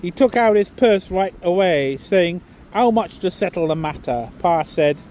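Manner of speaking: a put-on, hammy northern English accent for the whole poem; terrible northern English accent. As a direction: read it like an old Lancashire monologue, accent laid on but not polished. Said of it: "excuse the terrible accent".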